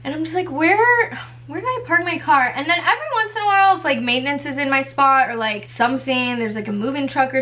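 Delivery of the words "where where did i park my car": higher-pitched puzzled question, first word drawn up; mock bewilderment, pitch lifted; baffled. Searching the empty spot for her car, baffled.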